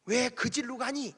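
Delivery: imitated Gyeongsang granny's question; Gyeongsang dialect. Preacher quoting grandmothers, imitated Gyeongsang dialect. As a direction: say 질로 for 길로, Gyeongsang style. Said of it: "경상도 사람들은 길을 뭐라고 그래요?".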